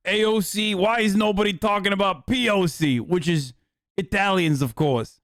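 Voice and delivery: mock-indignant New Jersey Italian; New Jersey Italian accent. Italian character asking why nobody mentions them, New Jersey accent.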